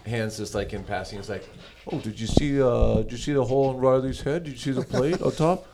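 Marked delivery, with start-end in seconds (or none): 1.9-5.7 lightly imitating a son's breezy, offhand chatter; a touch of casual teen voice; nonchalant. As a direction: toss it off like it's nothing at all.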